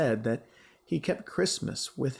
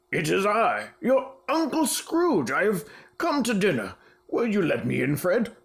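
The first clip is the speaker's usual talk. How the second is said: excited; 5 semitones higher, 3 dB louder than usual. Acted. Scrooge announces himself joyfully.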